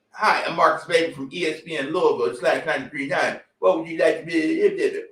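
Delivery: a hint of a polite radio reporter; mocking a reporter who wants an interview. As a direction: lightly imitate a radio reporter asking questions. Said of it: "excuse me, sir".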